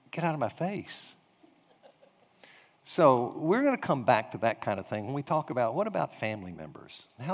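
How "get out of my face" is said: softly voiced, weary-of-it complaint; muted protest. Person pursued by eager Christians, softly protesting. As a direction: grumble it under the voice.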